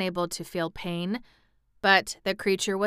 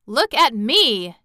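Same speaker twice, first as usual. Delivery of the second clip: loud, high, drawn-out cry; indignant cry; 5 semitones higher, 9 dB louder than usual. A narrator's reading. Indignant cab horse to the wooden one, crying out. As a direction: demand attention with indignant force. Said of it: "he cried".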